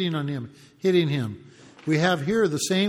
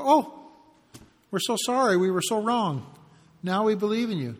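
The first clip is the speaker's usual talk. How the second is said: mock apology; 2 semitones higher than usual. Preacher mimicking the leaders' insincere apology, sarcastic. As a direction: overplay the fake regret, ironic. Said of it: "You think this is sincere?".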